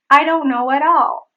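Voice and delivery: "at all" joined with a tapped T; linked flap T. Shown as a demonstration. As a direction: flick "at" into "all" within the sentence. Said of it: "There is the flap T".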